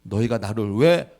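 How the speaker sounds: loud, slow, booming reproach; God's indignant rebuke. Retold or imitated. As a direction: thunder it like an offended father demanding respect. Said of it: "지금 그 얘기를 하시는 거예요".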